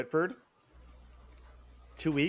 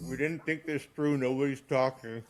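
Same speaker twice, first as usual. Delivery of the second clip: talking through a mouthful of peanut butter; words round a sticky bite; mouth full of peanut butter; 3 semitones higher than usual. Real, not acted. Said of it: "now I have a mouthful of peanut butter".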